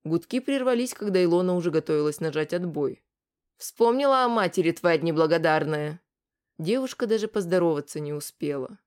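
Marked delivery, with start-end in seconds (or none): 3.6-6.0 mother yelling. Acted. Mother yelling at daughter on phone.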